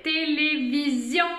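"télévision" in four even, measured syllables; syllables joined up. Shown as a demonstration. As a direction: sound out "télévision" without long breaks. Teacher sounds out whole word.

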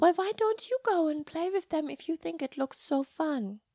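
lightly voiced Sister, mildly exasperated; gentle nun voice.

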